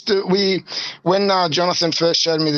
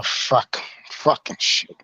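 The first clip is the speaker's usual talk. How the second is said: muttered curse; 3 semitones lower, 4 dB quieter, much slower than usual. Real, not acted. Muttering to himself at phone.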